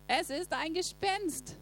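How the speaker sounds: mock fright. A narrator's reading. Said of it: "schrien voller Entsetzen".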